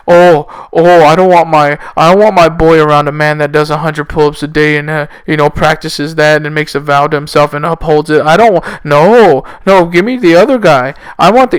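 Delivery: mock-whining complaint; sarcastic mimicry. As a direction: imitate a fussy objector, lightly hammed-up. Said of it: "I'm obviously being sarcastic again".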